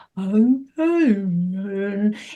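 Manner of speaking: drawn-out, stretched whale-speak voice. Imitating the dog answering a question: Dory whale-talk voice. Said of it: "talking like the whale in Finding Nemo".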